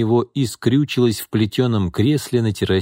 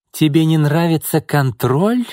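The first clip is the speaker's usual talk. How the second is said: hissing; 8 semitones higher, 4 dB louder than usual. A narrator's reading. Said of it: "прошипела она".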